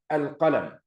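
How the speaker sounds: "Al-qalam" stopped dead with no final vowel; cut-off ending. Shown as a demonstration. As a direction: clip the word at the m. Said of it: "Doesn't prove anything".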